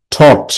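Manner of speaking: "Thought" said as one separate syllable; first syllable demonstrated. Shown as a demonstration. Teacher showing students how to pronounce it, "Thought" as a lone syllable. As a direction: sound out "Thought" alone, short and falling. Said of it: "দেখো এটা উচ্চারণ করবে কিভাবে".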